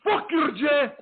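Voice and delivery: put-on high, shouting accented rant with laughter breaking in; Iron Sheik rant. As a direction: rage at the audience like the Sheik, laughing through it. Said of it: "Iron Sheik promo".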